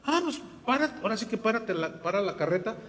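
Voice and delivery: high, bright, eager teacher; eager offer. Acted. Felipe telling the man to stop the carriage, eager. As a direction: jump at the chance to explain.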